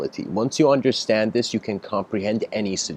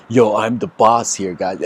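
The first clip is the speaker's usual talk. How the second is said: louder, lightly cocky boss impression; mock arrogance; 5 dB louder than usual. Speaker mimics a so-called master to the guys, mock arrogant. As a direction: imitate a swaggering self-styled boss. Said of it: "in the arrogant kinda".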